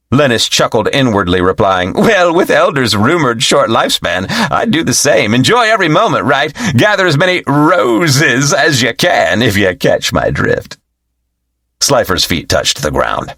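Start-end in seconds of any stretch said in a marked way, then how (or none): 1.9-10.8 knowing disciple. Acted. Lennis answers with a knowing chuckle.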